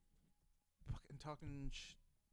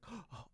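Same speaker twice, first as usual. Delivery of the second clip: imitated frightened gasp; 4 semitones higher than usual. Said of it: "all frightened".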